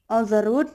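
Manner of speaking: "on the road" with the weight on "road"; stress on last word. Shown as a demonstration. Teacher repeating anapestic example, stress on "road". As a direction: keep "on the" light, land on "road". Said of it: "the stressed one is road".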